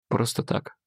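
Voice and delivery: breathy whisper, barely there. A narrator's reading. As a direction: answer under her breath, shaking. Trembling Eva answers.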